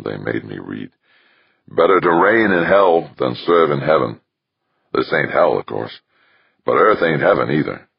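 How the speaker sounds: lightly voiced rough-and-ready Australian; lightly acted rogue reminiscing; wry Australian rogue. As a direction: play a hint of a colloquial, irreverent smuggler.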